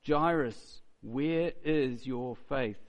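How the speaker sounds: slow, lightly voiced Jesus asking Jairus; just a hint of Jesus, drawn out slowly; Jesus asking gently. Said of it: "You can imagine him".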